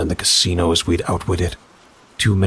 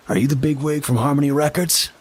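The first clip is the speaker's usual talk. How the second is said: smug official; 9 semitones higher than usual. A narrator's reading. Smug official leans in close.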